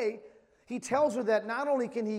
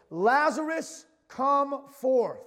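high, loud call into the tomb; Jesus crying out to dead Lazarus, loud and high; 6 semitones higher, 6 dB louder, much slower than usual. Acted. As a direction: call him out of the grave at full voice. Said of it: "he cried with a loud voice".

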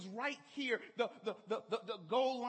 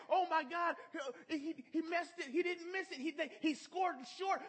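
upset dad; 6 semitones higher than usual. Retold or imitated. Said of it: "I got upset and I said".

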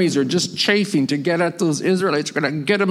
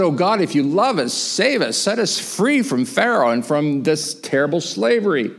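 mildly pleading, pitch raised at first; a restrained acted plea for rescue; crying out; 3 semitones higher than usual. Preacher voicing slaves crying out to God, pleading. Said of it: "they're crying out to God".

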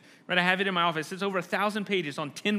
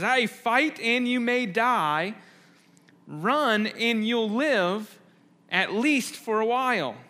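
slow, weighty and louder, each phrase landed; a war leader daring his men to stay; Wallace rallying cry; 3 semitones higher, 4 dB louder, slower than usual. Retold or imitated. Wallace answers the veteran on the battlefield, slow and commanding. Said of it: "He says".

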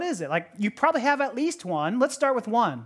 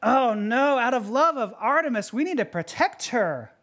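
feigned concern; 3 semitones higher than usual. Acted. Demetrius hiding greed behind religion, feigned concern. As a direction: plead with put-on devotion. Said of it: "trying to Trojan horse their".

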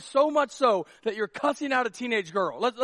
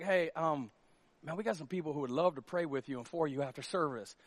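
much softer, lower, careful tone; concerned pastor; 7 semitones lower, 9 dB quieter than usual. Pretend. Pastor quietly offers prayer to a worried congregant, hushed and low. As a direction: speak gently, as to someone troubled.

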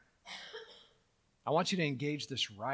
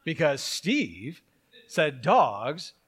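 mock dogmatic believer; 4 dB louder, slower than usual. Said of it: "they make an assertion".

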